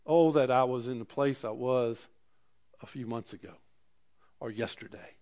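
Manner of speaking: Job, remembering better days, wistfully; wistful longing. Retold or imitated. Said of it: "He says".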